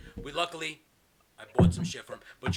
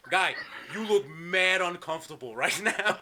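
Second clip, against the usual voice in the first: laughing; slower than usual. Retold or imitated. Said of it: "he goes".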